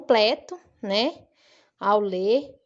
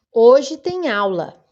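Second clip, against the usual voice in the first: slow, loud statement of "Hoje tem aula"; declarative intonation; 8 dB louder, slower than usual. Shown as a demonstration. Teacher demonstrating a full stop, slow declarative. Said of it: "eu dei uma entonação diferente".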